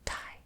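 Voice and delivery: whispered "Thai" with an aspirated t, like tie; "Thai" said slowly as tie; saying a word. Shown as a demonstration. Teaching viewers the Thai word, whispered. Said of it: "So the word Thai is".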